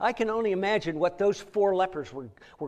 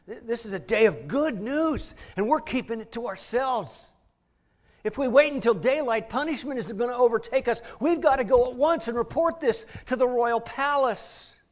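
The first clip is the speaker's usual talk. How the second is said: rising, louder urgent appeal to the group; urgent plea; 3 semitones higher, 6 dB louder than usual. Retold or imitated. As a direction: press them to act at once, building volume. Leper urging friends to report.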